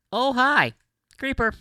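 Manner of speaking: sudden high, loud yelp of alarm; startled shout. Real, not acted. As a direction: jump at the sudden creeper. Creeper suddenly appears.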